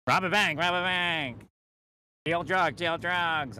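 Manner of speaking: high, insistent urging chant; whispered urging voice. Retold or imitated. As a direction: urge like a voice in the head. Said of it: "they'll be pushing you".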